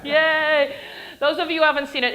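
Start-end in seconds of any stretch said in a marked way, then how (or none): 0.0-0.8 high, loud laughing yay; laughing cheer. Acted. Lecturer laughing as the hero revives, cheering high.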